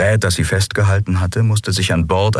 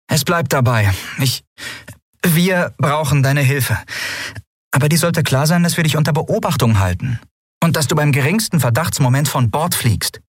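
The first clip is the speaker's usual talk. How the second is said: higher-pitched captain laying down terms; lightly acted stern warning to a new crew member; lightly voiced firm captain; 9 semitones higher than usual. A narrator's reading. Figure's dialogue in story reading. (leicht gespielte, bestimmte Kapitänsstimme)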